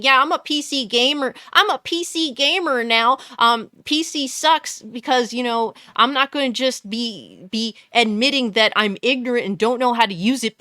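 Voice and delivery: mock a clueless newbie bragging; mocking console gamer. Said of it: "and then saying".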